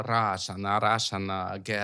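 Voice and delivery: imitated Russian accent. Shown as a demonstration. Showing the other Eastern European accent, Russian accent. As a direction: put on a Russian accent, stretching the vowels. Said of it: "you have the Russian accent".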